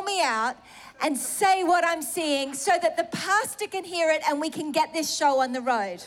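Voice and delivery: imploring God, half in earnest, retold; retold urgent plea. Woman retelling her plea to God for a sign, urgent pleading.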